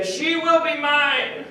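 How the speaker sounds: a hint of Genghis Khan vowing to win her; grand conqueror. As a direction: proclaim it like a warlord surveying the land. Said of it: "looking at her in the distance saying".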